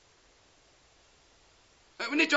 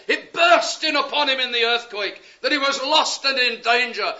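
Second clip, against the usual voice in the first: preaching shout. Real, not acted. Dramatic telling of the earthquake.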